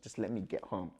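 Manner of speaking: soft, controlled plea; calm retold request. Man asking partner to let him leave, calmly. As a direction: ask softly, keeping calm. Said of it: "I was really calm at this point".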